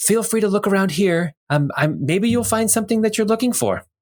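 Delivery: high, carrying stage whisper. Voicing Jem calling over to the visitor, the narrator uses Jem's stage whisper. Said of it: "stage whisper type of a voice".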